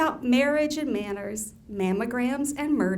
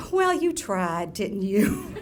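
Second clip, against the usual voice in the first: mock sweet condescension; 2 semitones lower, slower than usual. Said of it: "which can mean anything from".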